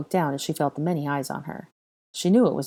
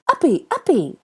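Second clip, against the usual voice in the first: put-on high, loud begging child; pleading toddler; 11 semitones higher, 7 dB louder than usual. A narrator's reading. Boy begging his father to lift him, high and eager. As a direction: ask to be picked up, eager.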